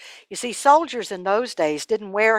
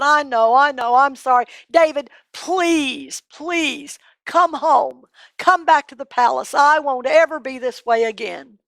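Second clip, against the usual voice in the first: pleading Saul; 4 semitones higher than usual. Acted. Saul begging David to come home, high and pleading. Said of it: "And Saul said".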